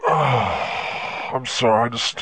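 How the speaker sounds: mock crying. Drunk caller breaks down apologizing.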